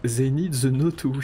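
English with a mock Russian accent; playful Russian-accented English. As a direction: slip into a put-on Russian accent. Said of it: "en anglais avec un accent russe".

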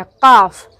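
"काफ" with a throaty q at the start; sonido de garganta. Shown as a demonstration. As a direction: say "काफ" from back in the throat, firmly. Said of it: "गला के साथ बोलना है".

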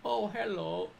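put-on cheerful hello in a broken Asian accent. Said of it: "I just can't stop".

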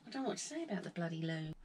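fast, giggly rush of words; trying not to crack up; giggling. Real, not acted. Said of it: "She's had the giggles".

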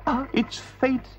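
high, slow, dreamy toad voice; Toad to himself. Acted. Toad tempted by the car, slow yearning voice. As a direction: give in to temptation, musing. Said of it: "he said to himself".

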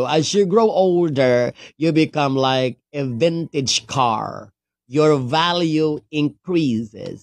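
slow, careful retake; corrected take. Shown as a demonstration. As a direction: say it again slowly, getting it right. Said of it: "Take two, take two".

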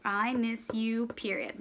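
slowed words for writing; slow dictation. Shown as a demonstration. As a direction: read it slowly as you write. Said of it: "Now I can put my period".

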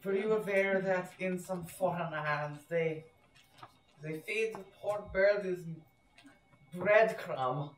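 put-on German accent. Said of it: "these fake German accents".

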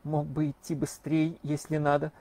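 unnaturally firm, steady voice; forced firmness. Acted. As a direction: sound brave while scared. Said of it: "неестественно твёрдым голосом".

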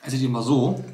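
talking with a mouth full; words round a bite of food. Real, not acted. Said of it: "Mit vollem Mund spricht man aber nicht".

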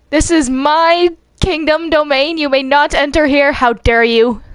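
a hint of an outraged monarch; mock queen. Queen forbidding intruders her domain, indignant.

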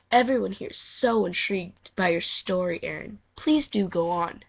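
gently acted courtly invitation; lightly voiced audition line. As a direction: read it as a polite host. Reading audition lines.

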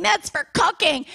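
put-on high and slow child's protest; slow little girl whine. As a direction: drag it out like a pleading little girl. Daughter protests during chase.

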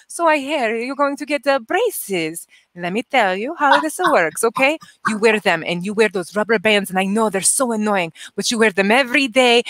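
lightly voiced Italian accent, rising at the end; a hint of Italian accent to a child with braces. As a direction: coax a kid in a mild Italian accent. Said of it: "talking with my Italian accent".

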